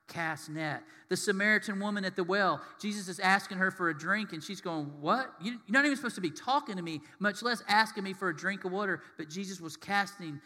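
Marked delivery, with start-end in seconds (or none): 5.0-9.0 mock astonishment, hurried at first; taken aback. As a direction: act out a startled, stammering objection. Samaritan woman voiced, taken aback.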